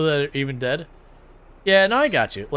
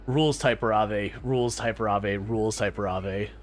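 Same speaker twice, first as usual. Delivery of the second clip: slow robotic text-to-speech voice; old speech synthesizer; 4 semitones lower than usual. Retold or imitated. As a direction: read it flat like a cheap TTS bot. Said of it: "Good old T T S".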